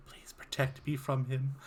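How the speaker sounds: hushed, soft little plea; pleading whisper. Acted. Sven secretly asks his bedmate for protection, whispered. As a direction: beg quietly for protection. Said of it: "Sven whispers".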